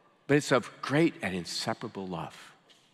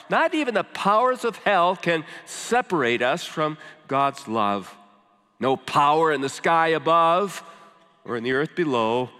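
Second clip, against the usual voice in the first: raised, higher-pitched preaching climax; emphatic proclamation; 4 semitones higher, 3 dB louder than usual. Real, not acted. Preacher assures congregation nothing can separate them, emphatic and raised. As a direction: proclaim it, punching the key words.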